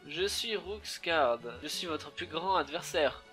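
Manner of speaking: lightly voiced boss villain, slowly announcing himself; Rookscard's grand introduction. Boss introduces himself to the heroes, grand announcement. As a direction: proclaim yourself the great adversary, drawn out. Reading a boss's self-introduction, slowed.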